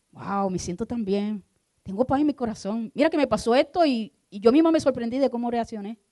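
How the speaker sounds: cada vez más alto y fuerte, lleno de alegría; testimonio emocionado. Acted. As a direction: sube la emoción como quien no se lo cree. Voicing a joyful believer. (creyente cuenta con emoción su paz nueva)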